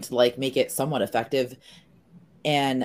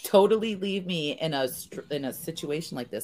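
mock accusation; 3 semitones higher than usual. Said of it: "I'm like".

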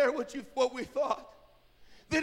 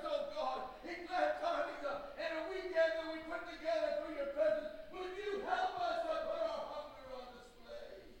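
raised, higher pleading prayer; impassioned prayer; 5 semitones higher, 8 dB quieter than usual. Real, not acted. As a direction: plead aloud with God. Preacher cries out a prayer.

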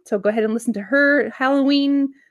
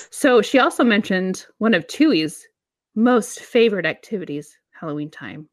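sarcastic. Acted. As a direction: lay the irony on thick. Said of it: "Can you sense my sarcasm?".

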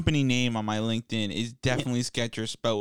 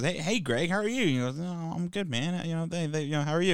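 mock office VP; 6 semitones higher than usual.

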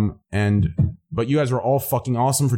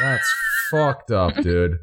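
mock outraged shout; 2 semitones lower, much slower than usual. Real, not acted. Mock outrage at chat insult.

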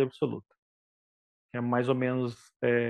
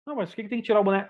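mock student protest; 4 semitones higher, faster than usual. Student protesting in retold scene.

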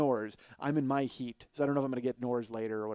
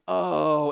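mock groan; 7 dB louder than usual. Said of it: "and groaning".

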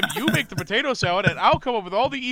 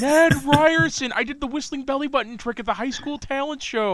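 eager Ned Ryerson impression; 7 semitones higher than usual. Cohost riffs on Groundhog Day, in an eager high salesman voice. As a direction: play the overfriendly old classmate, drawing out his name.

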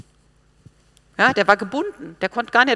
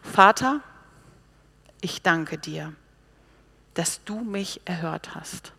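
prayer to the Father; slower than usual. Acted. Jesus thanks the Father before the crowd, prayerful. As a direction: address the Father, sinking into hushed thanks. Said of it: "hob die Augen empor und sprach".

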